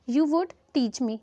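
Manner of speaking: very slow, each word spelled out; slow dictation. Shown as a demonstration. Teacher reads the English half slowly to students. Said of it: "पहले तो आप इसका half देखिए".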